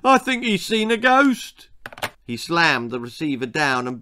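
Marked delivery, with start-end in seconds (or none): 0.0-1.7 mock panic. A narrator's reading. Fake panic on phone.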